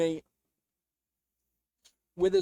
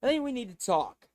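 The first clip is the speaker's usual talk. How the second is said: softer, strained voice; in pain; 4 dB quieter than usual. Real, not acted. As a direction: speak through neck pain. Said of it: "sorry if I sound a little in pain".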